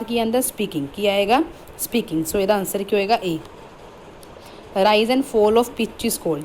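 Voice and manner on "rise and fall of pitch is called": very slow, word-by-word dictation of the question; reading the question out. Shown as a demonstration. Teacher slowly reads the exam question aloud to students. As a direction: read each word slowly for the class to copy. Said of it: "ਜਦੋਂ ਉਹਨੇ ਕਿਹਾ ਕਿ".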